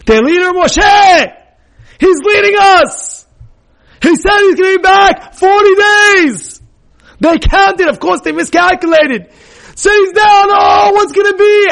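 panicked preaching shout. Real, not acted. Rabbi dramatizing the people's panic.

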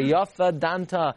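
slow, humble praise; accepting praise. Retold or imitated. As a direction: say it slowly, accepting judgment. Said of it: "They say".

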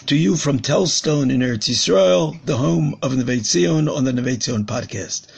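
hoarse from praying, voice worn out. Real, not acted. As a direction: speak through a hoarse, lost voice. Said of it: "As you can hear, I'm a little bit hoarse".

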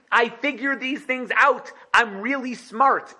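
mock smug ruler; Yosef boasting. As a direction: drawl it out pleased with yourself. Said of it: "said Yosef".

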